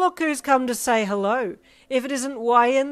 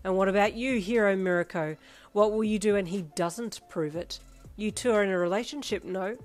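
loud menacing taunts; taunting; 8 dB louder than usual. A narrator's reading. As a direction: toy with them cruelly. Villain taunting the couple.

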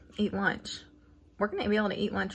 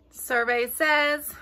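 game show host; 5 semitones higher, 3 dB louder, much slower than usual. Pretend. Game show announcer bit.

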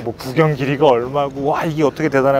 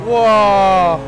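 excited whoop; 6 semitones higher, 6 dB louder, much slower than usual. Real, not acted. Thrill ride exclamation.

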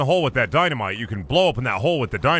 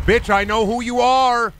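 much higher and louder, jeering; loud taunt; 10 semitones higher, 4 dB louder than usual. Real, not acted. Gamer taunting the monster, loud jeering yell. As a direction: yell it right in the monster's face.

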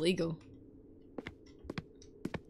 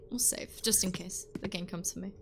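whisper; 3 semitones lower, 6 dB quieter than usual. Real, not acted. Whisper before saving.

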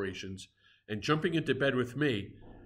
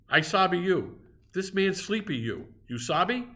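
put-on old landlord voice; 5 semitones higher than usual. Landlord voiced, pidgin to Queequeg.

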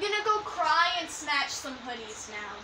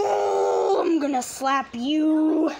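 mock threat; 7 dB louder, much slower than usual. Mock threat after teasing.

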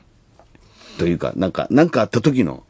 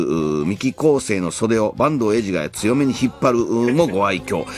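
trailer narration; 2 semitones higher than usual. Acted. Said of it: "予告ナレーションが流れていました".

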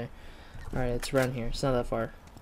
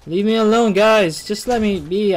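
whiny yell, higher and louder; exasperated shout; 5 semitones higher, 4 dB louder than usual. Real, not acted. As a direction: plead loudly to be left alone. Swarmed by enemies.

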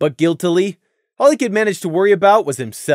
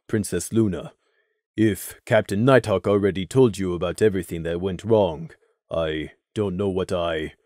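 put-on low, soft unsure young stallion; subdued low guard voice; Crimson, hesitant soldier; 9 semitones lower, 4 dB quieter than usual. A narrator's reading. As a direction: answer royalty carefully and low. Crimson answers the princess.

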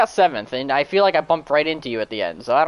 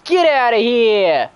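put-on Boston accent; 4 semitones higher, 5 dB louder, slower than usual. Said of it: "Boston accent".

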